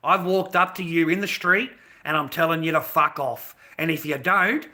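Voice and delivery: loud retold confrontation, building; getting serious. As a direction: imitate a lad laying down a firm warning. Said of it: "they got a little bit serious".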